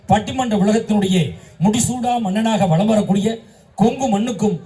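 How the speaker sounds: formal, rolling debate-host introduction; stage introduction. Acted. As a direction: build up the guest title by title, in measured phrases. Formal introduction of team leader. (பட்டிமன்ற மேடை அறிமுக முழக்கம்)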